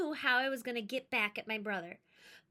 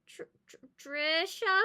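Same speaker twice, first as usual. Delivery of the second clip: whisper; 6 semitones higher, 4 dB louder than usual. Acted. A distant call, whispered.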